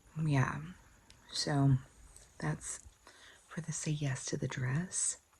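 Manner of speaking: soft, hushed whisper under the breath. Explaining the day's plans, whispering. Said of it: "I don't know why I'm whispering".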